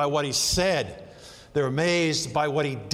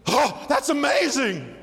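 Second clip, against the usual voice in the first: mock awe; 5 semitones higher, slower than usual. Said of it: "They go".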